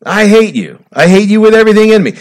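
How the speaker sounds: hammed-up shouting at someone you hate; mock screaming match. Preacher acting out a screaming match between people, a mock furious yell. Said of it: "This is the screaming match".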